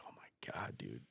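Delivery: hushed, voiceless aside; whispered dread. Retold or imitated. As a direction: whisper it to yourself in awe. Dreading friend's rooftop jump.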